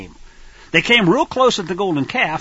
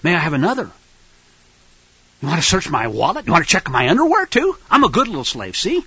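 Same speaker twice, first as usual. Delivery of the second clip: mock docile slave; 3 semitones lower than usual. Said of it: "good little slaves will recognize".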